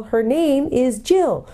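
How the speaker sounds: high, slow hooted words; owl calling out. A narrator's reading. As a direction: stretch each word into a high hoot. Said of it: "as loud as it could".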